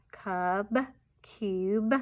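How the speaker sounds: "cub" and "cube" spaced apart, final b released; careful repeat of "cub", "cube" with clear b; emphasized final sound. Shown as a demonstration. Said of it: "emphasize the final".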